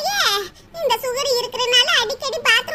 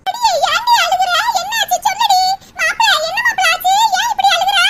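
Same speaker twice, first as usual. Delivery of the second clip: worried mother; 3 semitones higher, 6 dB louder than usual. Acted. Mother asks crying daughter.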